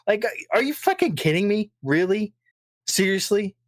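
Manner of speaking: high, disbelieving outrage; incredulous rant. Real, not acted.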